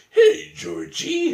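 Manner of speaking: high, slow, creepy clown voice; Pennywise voice. Retold or imitated. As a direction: stretch it out high and eerie. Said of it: "like that, it's like".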